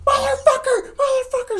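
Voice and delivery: very high, loud outraged screech; mock panicked driver screaming; shrieking yell. Other driver yelling after crash.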